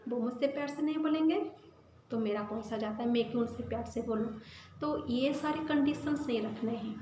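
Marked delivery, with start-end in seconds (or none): 0.1-4.4 dismissive shrug. Retold or imitated. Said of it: "tit for tat की रीति से".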